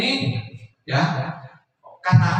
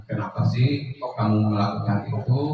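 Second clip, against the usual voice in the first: softer, gentle asking, acted; gently friendly question; 3 semitones lower, 5 dB quieter than usual. Teacher as friend asking pupil why, gently. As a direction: ask softly as a friend would. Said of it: "sebagai teman".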